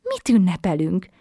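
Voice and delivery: put-on a girl curious and amazed; girl wonders what they will celebrate; wondering. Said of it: "csodálkozott el Matilda".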